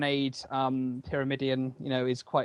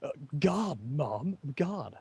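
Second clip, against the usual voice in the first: mocking teen impression; 4 dB quieter, slower than usual. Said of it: "If my teenager voice".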